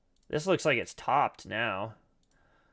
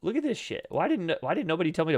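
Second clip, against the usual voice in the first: amazed; 5 semitones higher, faster than usual. Real, not acted. Stunned by a huge pump.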